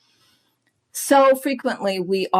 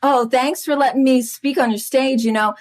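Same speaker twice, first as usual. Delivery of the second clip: lightly mocked gushing preamble, higher in places; hesitant audience speaker; 4 semitones higher than usual. Clubhouse guest stalling before the question, lightly mocked hedging. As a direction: imitate a rambling, over-polite question asker.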